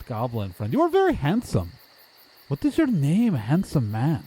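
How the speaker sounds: stilted, oddly friendly local; overeager odd townsperson. Acted. Townsperson asking the visitors their names, oddly eager. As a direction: lurch from eager questions into admiring flattery.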